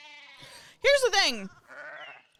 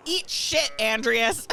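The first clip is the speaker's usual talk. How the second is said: cheeky insult; slower than usual. Acted. NPC insult.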